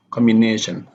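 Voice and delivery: "Combination" as combi-NA-tion; stress before -tion. Shown as a demonstration. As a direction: lean on NA in "Combination". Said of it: "then the stress is on the".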